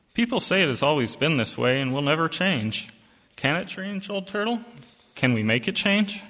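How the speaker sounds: lightly voiced small girl, eager; a hint of a curious child; little girl voice. Little girl asks Old Turtle.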